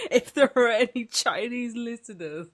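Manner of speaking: laughing mock quote. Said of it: "You randomly come out with".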